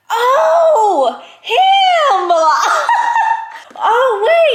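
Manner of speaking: high laughing shriek of surprise; surprised squeal. Real, not acted. Shocked reveal while reading.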